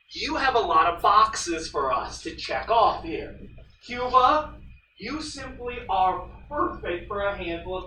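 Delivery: lightly voiced United States courting Cuba; voicing the US. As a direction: sell it like a salesman wooing an ally. Teacher voices the United States pitching.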